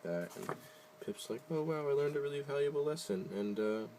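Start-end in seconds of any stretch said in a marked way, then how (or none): 1.5-3.3 mock-earnest. Mocking penguin's moral.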